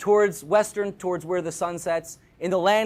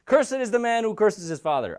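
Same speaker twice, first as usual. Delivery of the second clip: crowd proclaiming; 5 semitones higher, 4 dB louder than usual. Acted. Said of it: "the people on this mountain say".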